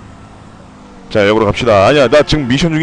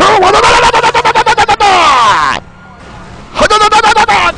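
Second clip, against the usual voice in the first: stunt battle cry. Pretend. (높고 빠르게 외치는 돌격 소리)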